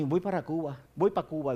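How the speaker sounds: low, soft self-directed remark; talking to himself. Retold or imitated. Man sitting alone telling himself of a trip, low and soft. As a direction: say it low, as if privately. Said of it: "digo para mí".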